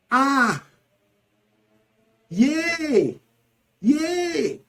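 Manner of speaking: high, drawn-out yelps of pain; cries of pain. Shown as a demonstration. Teacher demonstrating pain interjections, pained cries. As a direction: cry out as if hurt.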